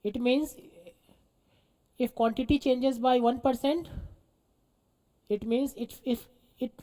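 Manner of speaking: very slow, spaced-out dictation. Real, not acted. Teacher dictating the meaning to students, slow dictation. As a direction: repeat it evenly for people writing.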